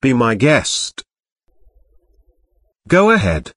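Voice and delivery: British English model phrases; British accent. Shown as a demonstration. The speaker models letting someone borrow things, British accent.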